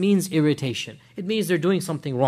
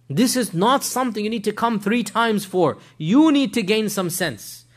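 retold scolding, raised and emphatic; lashing out; 5 semitones higher, 3 dB louder than usual. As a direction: tell him off firmly, in mild reenacted anger. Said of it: "she lashes out at the man".

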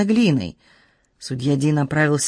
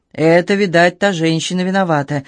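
put-on drunken slur. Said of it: "еле ворочая языком, забормотал".

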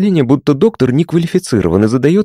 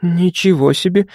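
surprised whisper; 7 semitones higher than usual. A narrator's reading. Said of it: "удивлённо прошептала она".

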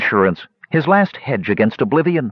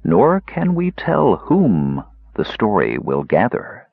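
slow deliberate reading; slower than usual. Shown as a demonstration. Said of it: "adopt the common misreading".

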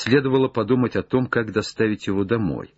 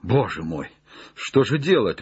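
understated, helpless exclamation; despair. Acted. Legrand learns the branch is dead, mild despair. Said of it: "как будто в отчаянии".

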